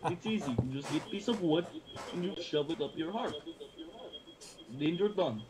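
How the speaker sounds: thick mock Russian accent. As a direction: put on a heavy Russian accent. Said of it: "I like your Russian accent".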